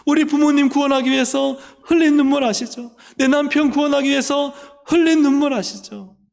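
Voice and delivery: high, impassioned appeal to God; acted tearful plea. Believer reminding God of tears shed for family's salvation, tearful pleading. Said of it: "그렇게 막 눈물 흘렸던".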